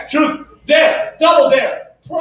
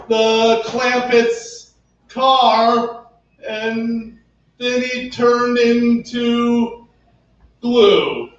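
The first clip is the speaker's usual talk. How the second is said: bouncy limerick lilt; much slower than usual. Pretend. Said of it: "make up a limerick".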